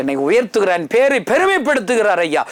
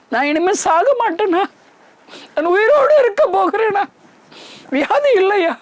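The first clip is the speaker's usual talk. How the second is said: amazed joy; 13 semitones higher than usual. Retold or imitated. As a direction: relive the disbelief of being healed. Retold amazement at healing. (ஆச்சரியமும் மகிழ்ச்சியும் கலந்த உயர்ந்த குரல்)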